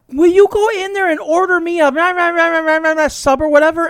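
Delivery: high, sing-song mock request; hammed-up old lady voice; imitating old lady. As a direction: mumble the order like a doddering lady. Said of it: "pulls out this wad of cash and goes".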